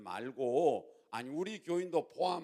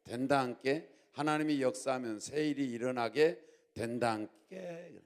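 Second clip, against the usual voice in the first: Jeolla accent; 4 dB louder than usual. Shown as a demonstration. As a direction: preach it in Jeolla dialect. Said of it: "전라도 버전으로".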